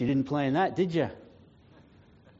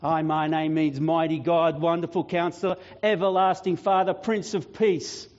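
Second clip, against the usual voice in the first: mounting proclamation. Acted. Jesus tells Death what his name means, mounting proclamation. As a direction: build each title on the one before.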